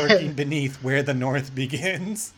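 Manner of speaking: low, lurking mock menace; mock ominous. Hosts overanalysing a dog film, mock ominous. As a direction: intone it like a dark film teaser.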